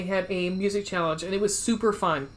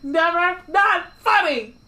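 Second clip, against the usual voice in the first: laughing protest; 9 semitones higher, 6 dB louder, slower than usual. Real, not acted. Laughing after obnoxious bye.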